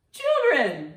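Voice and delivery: high loud announcement; spring the surprise answer; excited reveal. Real, not acted. Grandma revealing the surprise riddle answer to kids.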